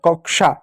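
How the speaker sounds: कक्षा with a clear "k-sh"; pronounced kak-sha. Shown as a demonstration. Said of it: "तो श पढ़ते हैं". (कक्षा में "श" की साफ़ ध्वनि)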